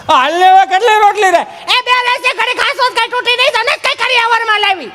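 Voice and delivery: high comic woman's voice; high put-on voice. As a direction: tease in a high voice. Teasing exchange about rotis.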